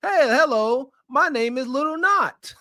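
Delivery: lightly voiced ladylike greeting; polite greeting. Shown as a demonstration. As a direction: show her how to say it nicely. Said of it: "you can't even say".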